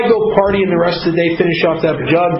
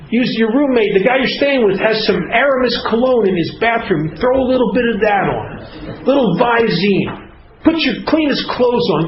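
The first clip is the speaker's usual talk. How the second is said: higher-pitched coaxing self-talk; inner alcoholic voice; 6 semitones higher than usual. Acted. Alcoholic talking himself into seeing dad, inner coaching voice. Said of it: "having a conversation with myself".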